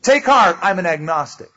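hollow cheer, loudly announced then deflating; mock rallying cry. Agnostic cheering up shipmates in a storm, mock rallying.

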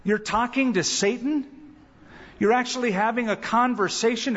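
pastor stopping someone mid-prayer, alarmed and incredulous; startled interruption. Retold or imitated. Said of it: "I go".

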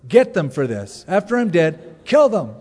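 rising into a loud cry for revenge; vengeful prayer. Pretend. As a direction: pray for payback, building to a shout. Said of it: "I'd be tempted at least to say that".

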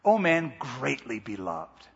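slow, reverent, hushed; hushed awe. Retold or imitated. Preacher repeating the angel's greeting slowly in awe. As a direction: linger on it like a tender blessing. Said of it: "you can see how shaken up he is".

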